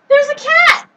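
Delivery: sudden high gasp of surprise; startled and delighted; surprised gasp. Real, not acted. Cat suddenly appears.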